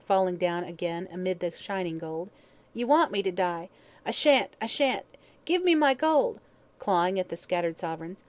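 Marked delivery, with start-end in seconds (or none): 2.7-6.4 high, defiant cries, climbing at the end; crying out. A narrator's reading. Hag to the watching men, crying out. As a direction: refuse wildly, voice rising. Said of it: "cried the hag".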